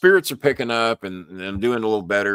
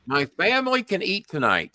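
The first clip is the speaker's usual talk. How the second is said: mild imitation of a tearful young girl, higher; tearful girl's thanks; 8 semitones higher than usual. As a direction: voice her overwhelmed gratitude, pitched higher. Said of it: "She cried".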